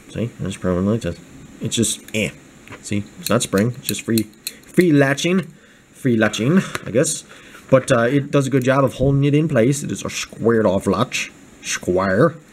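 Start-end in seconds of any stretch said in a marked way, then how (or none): 9.8-12.3 put-on Scottish accent, lower pitch. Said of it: "We're talking about Sean Connery voice".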